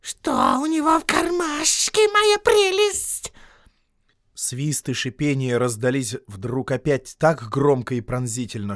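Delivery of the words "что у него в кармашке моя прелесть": much higher, very slow hissing; suspicious Gollum. Acted. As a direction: drag out the suspicion, menacing. Gollum asking his precious.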